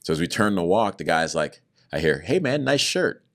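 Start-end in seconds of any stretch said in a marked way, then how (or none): 2.2-3.2 higher, slow drawn-out hey man; inmate's remark. Retold or imitated. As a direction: voice the big guy, unhurried. Big tattooed inmate remarks.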